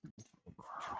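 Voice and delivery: hushed, whispered praise to a pet; very soft and low, calming the dog; soothing a dog. Real, not acted. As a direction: murmur it gently to settle her.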